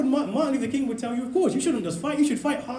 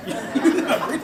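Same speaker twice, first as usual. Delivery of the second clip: slow, laughing put-down; amused, drawn-out scoff; laughing mockery; 5 semitones higher, 5 dB louder, slower than usual. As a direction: laugh the words out slowly as a dismissal. Mocking the Windrush generation.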